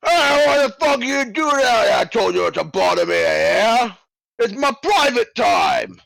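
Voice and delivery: furious shouted yell through a door; angry guard. Acted. Boss guard yelling at knockers outside his door, furious shout. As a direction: bellow at the intruder, outraged.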